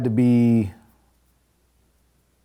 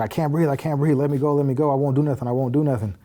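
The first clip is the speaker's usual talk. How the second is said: mildly raised, repetitive begging; retold pleading; 3 semitones higher than usual. Inmate held down by captain and officers, retold mild pleading. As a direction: replay pleas in a run-on rush.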